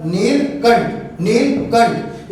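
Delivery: नीलकंठ said slowly, syllables pulled apart; slow demonstration. Shown as a demonstration. Teacher repeating the word slowly with a little laugh. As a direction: stretch नीलकंठ to show the stop. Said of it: "बोल के देखिए आप".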